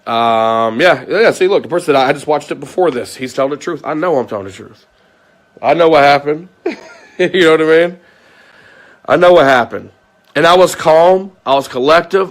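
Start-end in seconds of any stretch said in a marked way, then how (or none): 5.6-12.3 raised insistent voice. Real, not acted. Insisting he is right.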